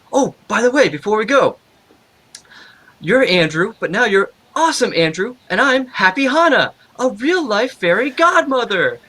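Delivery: high, lilting Eastern European lady voice; light hint of Eastern European accent. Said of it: "I can't even do her voice 'cause she had, like, this thick Eastern European accent".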